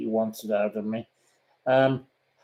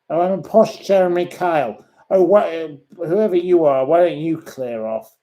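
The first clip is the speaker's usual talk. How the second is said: high, loud indignant outburst; angry; 5 semitones higher, 5 dB louder than usual. Real, not acted. Vlogger ordering the insulter to leave, angry. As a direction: fire back with raised, indignant voice. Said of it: "I'm so angry with you".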